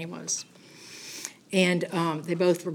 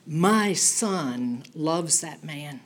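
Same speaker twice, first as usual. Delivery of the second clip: voice of God; 3 semitones lower, much slower than usual. Retold or imitated. The heard voice of God speaking about the homeless man, slow and solemn. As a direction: let each word land slowly, like a voice from heaven. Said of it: "I heard a voice say".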